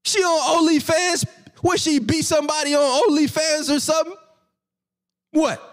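high incredulous mock yell, "What's she doing?"; mock disbelief. Streamer mocking a boxer's ranking, high disbelieving yell. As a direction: squeal it out in fake shock. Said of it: "I'm like".

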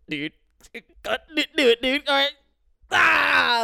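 hyped-up dude voice; mock teen bully pulling the alarm; mock bully egging on. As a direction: egg your buddy on, then yell. Bullies egging on fire alarm.

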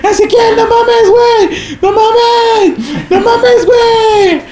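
high, laughing-crying plea not to be left alone; imitating a friend half-sobbing in panic; terrified pleading. (imitando un ruego desesperado, agudo, entre risa y llanto)

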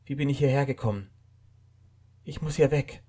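muttering lost and disoriented; confused man. A narrator's reading. Waking man asks himself where he is, bewildered.

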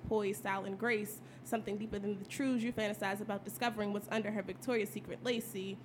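spoken-word performance; poem recital. Acted. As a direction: deliver it like a poetry slam.

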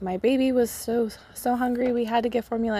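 a hint of a fretful mom retelling; mimicking other moms. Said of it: "moms that are like".

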